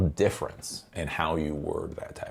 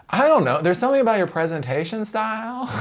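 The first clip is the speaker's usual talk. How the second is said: ordinary talk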